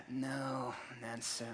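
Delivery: soft, low laughing brush-off; dismissive. Retold or imitated. Believers brushing off answered prayer, soft and low. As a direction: wave it off under the breath. Mock disbelieving reaction.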